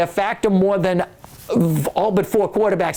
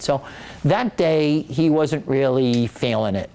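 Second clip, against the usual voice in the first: ordinary delivery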